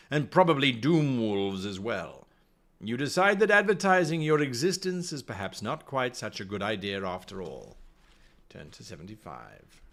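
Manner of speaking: storyteller setting the scene; story narration. A narrator's reading. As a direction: narrate it like an adventure tale. Reads gamebook aloud.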